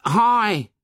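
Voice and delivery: put-on high-pitched boy's call; a high, sudden cry to a stranger. A narrator's reading. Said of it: "this cry was echoed by another".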